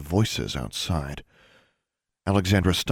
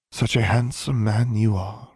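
slow, higher-pitched flattery; slow, airy come-on; softly; 5 semitones higher than usual. A narrator's reading. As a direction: linger seductively over the compliment. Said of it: "Bewi said softly".

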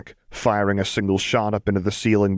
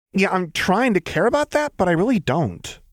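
Jinx voice; 11 semitones higher than usual. A narrator's reading.

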